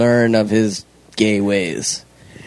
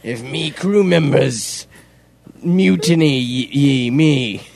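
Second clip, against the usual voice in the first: put-on pirate accent; much slower than usual. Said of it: "the worst accent I've ever heard".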